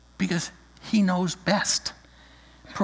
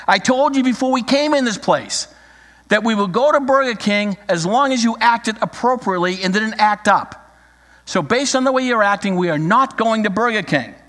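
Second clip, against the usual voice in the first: a raised, scolding mom voice; stern mother; 5 semitones higher, 3 dB louder than usual. Acted. Mother scolds her son about Burger King, sternly raised. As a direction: lay down the rules to a misbehaving kid. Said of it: "Mom looks at her son and says".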